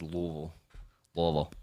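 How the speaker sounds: Louisville slurred, "LUH-vul"; local pronunciation. Shown as a demonstration. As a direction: say Louisville with no I or S, two syllables. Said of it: "there's no I in S in it".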